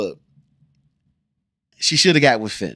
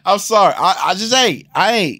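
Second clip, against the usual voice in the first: louder, higher, still laughing; laughing apology; 9 semitones higher, 7 dB louder than usual. Real, not acted. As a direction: say sorry through the laugh. Laughing after joke.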